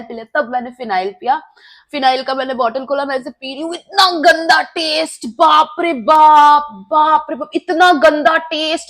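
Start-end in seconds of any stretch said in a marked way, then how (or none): 3.8-8.9 drawn-out, louder disgust at the taste. Retold or imitated. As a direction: relive the awful taste with a groan. (घिन से खिंचा हुआ "इतना गंदा टेस्ट")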